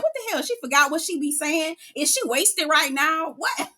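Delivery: high-pitched imitating of shocked disbelief; mock disbelief. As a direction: squeak it out like you can't believe what you just heard. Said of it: "Ion was like".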